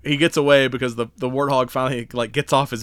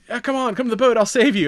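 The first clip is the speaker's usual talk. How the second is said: mock hero; 10 semitones higher, 4 dB louder than usual. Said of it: "he's like".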